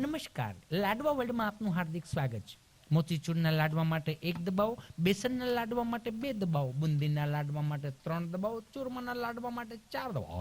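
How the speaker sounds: mock IVR recording voice; automated phone menu. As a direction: recite like a machine menu.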